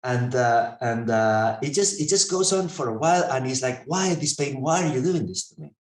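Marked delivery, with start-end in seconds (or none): 3.9-5.7 higher-pitched mock pleading; retold plaintive protest. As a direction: imitate a sufferer demanding an explanation. Acts out sufferer protesting the pain.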